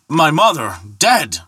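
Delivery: high, disbelieving outcry; shocked cry. Acted. Thor hearing that his mother is dead, crying out. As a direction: cry out at dreadful news. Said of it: "cried Thor".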